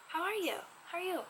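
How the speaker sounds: curious, probing question voice; inquiring question. Shown as a demonstration. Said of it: "look at my facial expressions".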